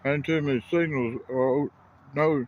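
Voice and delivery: talking through a mouthful of food; words round a bite, chewing; mouth full. Real, not acted. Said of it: "Sorry, I got food in my mouth".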